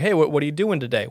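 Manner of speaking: lightly voiced sandwich guy; a hint of a chatty shop worker; slight character voice. Sandwich guy asking a customer, in a lightly put-on voice. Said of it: "gave him kind of a voice there".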